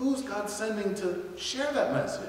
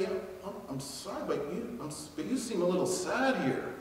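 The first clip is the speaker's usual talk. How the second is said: gentle hesitant approach; 6 dB quieter than usual. Pretend. Gentle approach to a sad stranger.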